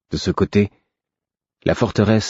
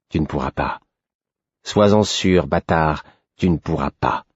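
cold cavernous voice. Acted. Galen taunts the narrator.

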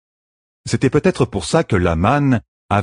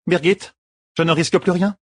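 high, anxious asking; worried question; 9 semitones higher than usual. Acted. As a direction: ask the bodyguard, uneasy. Elaine asks anxiously. (question inquiète)

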